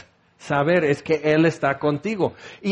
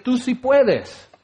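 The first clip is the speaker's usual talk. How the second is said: higher, slow drawn-out quote; mock encouragement; 5 semitones higher, slower than usual. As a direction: stretch out the empty pep phrase. Quoting the false encouragement.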